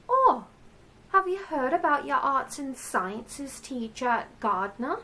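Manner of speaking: chatty secretary. Acted. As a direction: put on a chirpy secretary voice. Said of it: "the secretary, well, she said".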